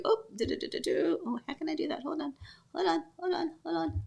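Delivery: hushed, half-voiced, busy with the screen; quiet muttering to herself. Real, not acted. Host muttering to herself while sorting out the screen, hushed. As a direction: mumble under your breath while fiddling.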